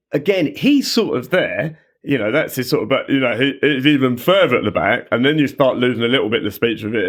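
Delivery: lightly voiced footballer, placed far back; Harry Kane. Shown as a demonstration. Impressionist showing how the footballer's voice is built, lightly imitated. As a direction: slip a little into the England captain's speech. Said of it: "someone like Harry Kane, the England captain".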